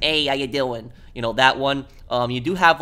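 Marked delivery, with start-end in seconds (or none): 0.0-0.9 lightly put-on New York accent; a casual New York greeting, the milder variety; softer New York accent. Shown as a demonstration. Gamer showing viewers an accent from home, softer New York. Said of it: "you know, the softer accent".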